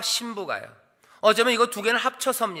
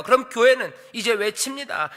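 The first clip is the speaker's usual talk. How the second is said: ordinary delivery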